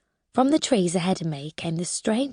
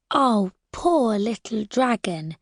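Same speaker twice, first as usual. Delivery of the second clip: put-on slow, gentle coo to a sick child; soothing carer's voice; 2 semitones higher, slower than usual. Narrator soothing a crying baby dragon, slow and gentle. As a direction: comfort it like a nurse with a sick little one. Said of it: "trying to use the voice Lily Daisy does".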